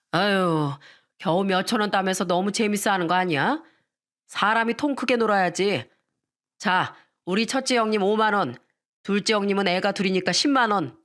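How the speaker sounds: a lightly voiced show-off handing out cash; boastful husband. Husband showing off money to his family, mildly boastful. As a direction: play the big spender lording it over family. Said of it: "이렇게 말하더라고요".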